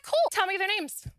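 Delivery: high, mock-breezy; bright fake cheer, sarcastic; sarcastic high cool. Sarcastic reply to confession.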